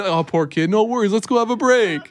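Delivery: lifted, mock-casual reassurance; playing it cool. Husband covers up to his wife, put-on easygoing tone. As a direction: breeze past it as if all is fine. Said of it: "I gotta play it cool".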